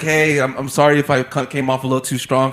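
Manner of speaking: low, soft, sheepish sorry; retold apology. Customer apologizing to the server for being rough, meekly. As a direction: back down gently. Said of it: "I guess I came off".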